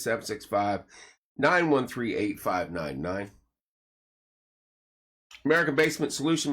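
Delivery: upbeat sponsor plug, punchy and bright; radio ad read. Acted. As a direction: sell it like a local radio spot. Reads sponsor plugs.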